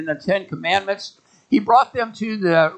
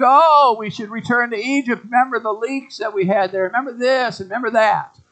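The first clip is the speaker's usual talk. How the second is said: imitating complainers, pitched up; mock complaining; 4 semitones higher than usual. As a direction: lightly act out grumblers pining for the past. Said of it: "Yet they repeatedly complained".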